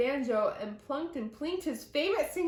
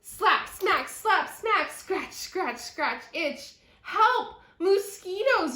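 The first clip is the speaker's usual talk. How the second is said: loud slaps ending in high help cry; yelling; 7 semitones higher, 5 dB louder, slower than usual. Acted. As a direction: boys panic under the swarm. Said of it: "yelled the boys".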